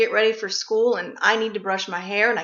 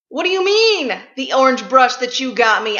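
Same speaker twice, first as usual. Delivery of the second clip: irate and sad; 5 dB louder than usual. Retold or imitated. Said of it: "getting irate and sad at the same time".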